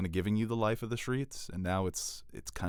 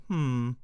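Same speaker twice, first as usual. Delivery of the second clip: higher nasal-style game-character hum; Minecraft villager hum; 5 semitones higher than usual. Acted. Host imitating a video game villager's hum. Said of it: "that's the villagers in Minecraft".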